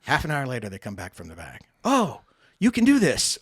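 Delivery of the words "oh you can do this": high, laughing mock clerk voice; laughing imitation. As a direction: mimic the clerks through laughter. Clerks' surprised reply, laughing.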